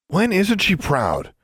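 slow, high-pitched jeer; taunting. A narrator's reading. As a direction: draw it out to needle her. Rival taunts from down the hall.

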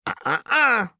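high singsong tut-tut; teasing warning. A narrator's reading. Jinx stops her sister with a teasing tut. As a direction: wag a finger with your voice.

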